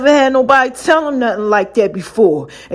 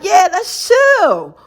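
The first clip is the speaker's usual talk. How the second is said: slow sultry invitation; 7 semitones higher, much slower than usual.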